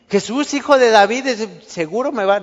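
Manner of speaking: a hypothetical eyewitness shouting, eager; imagined eager shout. Retold or imitated. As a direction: call out with mock certainty. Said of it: "él no pudo decir".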